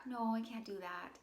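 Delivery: wishy-washy refusal. Retold or imitated. Client refusing her boss without firm boundaries, wishy-washy. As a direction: turn them down weakly, leaving wiggle room. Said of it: "And there was wiggle room".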